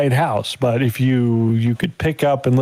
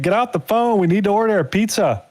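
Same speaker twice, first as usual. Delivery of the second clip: much higher mock bossy girl voice; higher, hammed-up demand to get off the phone; mocking a woman on the line; 8 semitones higher than usual. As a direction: squeak it out like an annoyed girlfriend.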